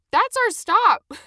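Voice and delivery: high, slow, very loud shout; loud call. A narrator's reading. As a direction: call out urgently to be let off. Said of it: "even as I said loudly".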